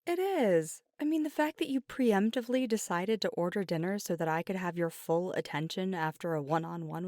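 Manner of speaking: gushing praise. Acted. Playful gushing praise of partner.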